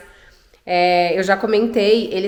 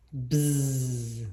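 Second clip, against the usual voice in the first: buzzing noise; 8 semitones lower, 10 dB quieter than usual. Shown as a demonstration. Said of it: "eu faço com a mão".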